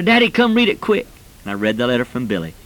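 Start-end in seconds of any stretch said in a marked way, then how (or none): 0.0-1.1 put-on excited child. Excited child waving a letter.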